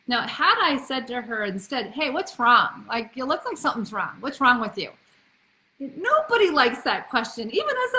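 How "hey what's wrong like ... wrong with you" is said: loud, pointed mock interrogation; confronting questioning. Shown as a demonstration. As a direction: play a parent pressing for the fault. Acts the question she avoided.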